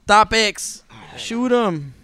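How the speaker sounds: high, loud laughing call; excited. Real, not acted. Laughing, calling to the chat.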